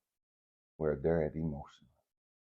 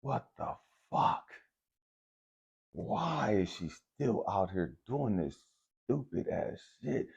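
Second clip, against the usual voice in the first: anguished asking; 4 semitones higher, slower than usual. Retold or imitated. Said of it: "I'm sitting at the table and I'm like".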